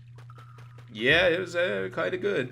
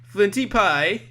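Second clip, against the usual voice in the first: Mad Gypsy; 8 semitones higher, 5 dB louder, slower than usual. Retold or imitated. Same Mad Gypsy voice again.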